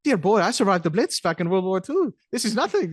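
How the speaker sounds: a hint of a grand old actor dismissing the storm; posh old man. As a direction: play a proud old man brushing it off. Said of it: "he was like".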